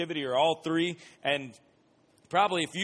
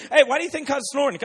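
confused sleepy roommate; 11 semitones higher, 10 dB louder than usual. Retold or imitated. Roommate still half-awake.

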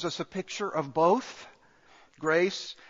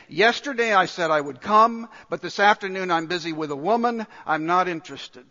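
rude guest brushing off the host; dismissive, said in passing; first rude take; 4 dB louder than usual. Retold or imitated. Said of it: "very rudely saying".

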